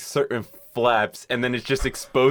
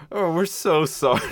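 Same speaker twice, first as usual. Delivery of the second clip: higher, gushing fake sympathy; mock apology; 4 semitones higher than usual. Cable company people mock a customer, falsely sorry. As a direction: imitate cable staff being insincerely sorry. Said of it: "the way you're saying it reminds me".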